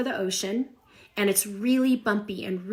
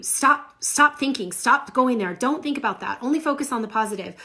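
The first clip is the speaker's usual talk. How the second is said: mock meditation teacher barking stop; half-hearted mock scold, louder and higher; mock stern instructions; 3 semitones higher, 3 dB louder than usual. Other meditation teachers ordering her to stop thinking, mock stern. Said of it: "The other meditations will tell you".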